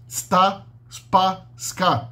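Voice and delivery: sta, spa, ska said as bare syllables; syllable demo. Shown as a demonstration. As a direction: say sta spa ska without a vowel before. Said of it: "Então o S".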